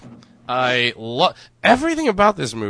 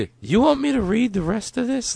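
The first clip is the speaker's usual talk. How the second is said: grandpa voice; 11 semitones higher than usual. Retold or imitated.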